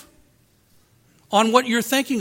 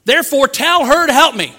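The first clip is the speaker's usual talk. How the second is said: demanding; 4 semitones higher, 7 dB louder than usual. Retold or imitated. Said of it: "The one person who's blind to it is Martha".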